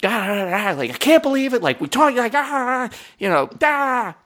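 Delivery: animated rant. Retold or imitated. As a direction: rant excitedly in nonsense syllables. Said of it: "I'm talking to her and I'm animated".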